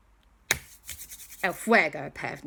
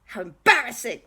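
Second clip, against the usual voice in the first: high, loud embarrassed cry; Balthazar Brat; 10 semitones higher, 5 dB louder than usual. Acted. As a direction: wail in mock mortification. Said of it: "He went".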